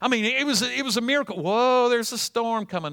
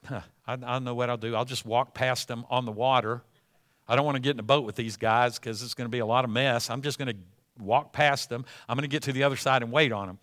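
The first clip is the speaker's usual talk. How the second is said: wry musing; 7 semitones lower, 5 dB quieter, faster than usual. Acted. Jesus musing to himself.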